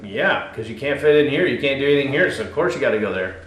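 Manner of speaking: put-on sneering lightly at the mission kids; arrogant young self. Mocking his proud student self, mildly smug. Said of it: "Incredibly, uh, um, arrogant and prideful".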